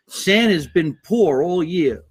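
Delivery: slow, a hint of a stern father; imitating father. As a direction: lightly voice a grumbling dad. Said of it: "My father used to say mean shit".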